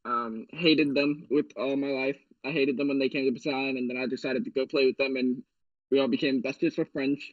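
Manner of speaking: talking with a retainer in; words a little blurred by a retainer; wearing a retainer. Real, not acted. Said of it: "I have my retainer in".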